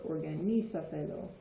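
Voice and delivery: Organizaselo stressed on its middle syllable NI. Shown as a demonstration. Teacher counting back four vowels, stress on NI in Organizaselo. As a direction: hit the NI in Organizaselo. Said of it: "the stress is gonna be in the middle there".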